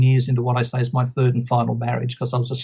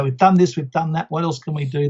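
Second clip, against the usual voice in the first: excited; 2 semitones higher than usual. Retold or imitated. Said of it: "They were exciting".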